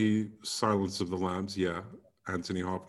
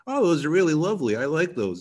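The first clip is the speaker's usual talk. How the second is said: imitated admirer; 6 semitones higher, 5 dB louder, faster than usual. Voices an admirer back home.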